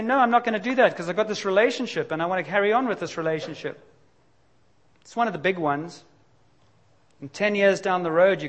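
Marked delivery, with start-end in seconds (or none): 0.0-3.8 mock stubborn protest. Mocks stubborn self-talk.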